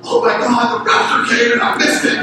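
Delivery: a touch of mock alarm, lightly played; half-joking childhood panic; retold kid's momentary rapture scare. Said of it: "this momentary panic of like".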